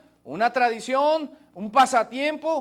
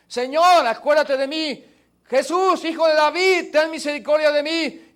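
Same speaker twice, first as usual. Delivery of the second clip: pleading cry; 5 semitones higher, 5 dB louder than usual. Acted. Blind man crying out to Jesus.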